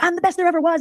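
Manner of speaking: high, hammed-up boast; imitating a boastful streamer; mock brag. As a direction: crow it like a diva. Voicing Farchado bragging on stream.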